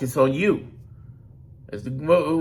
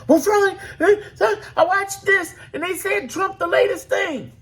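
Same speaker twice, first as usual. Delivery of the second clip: hammed-up high-pitched caller; mock caller; 14 semitones higher than usual. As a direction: squeak it like a worried fan calling in. Voices a caller asking him.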